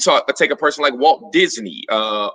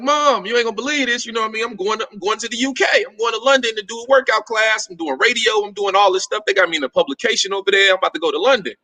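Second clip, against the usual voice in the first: pitched up and quick, bursting with news; excited news to mom; 6 semitones higher, faster than usual. Retold or imitated. Son calling mom about London gig, excited and high. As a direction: rush the big news out to mom.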